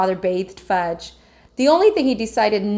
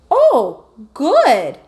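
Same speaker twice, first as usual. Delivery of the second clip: lightly voiced toddler, high and pleased; a small child's delighted "good"; little Fudge; 5 semitones higher, 6 dB louder than usual. A narrator's reading. Toddler tasting the omelet.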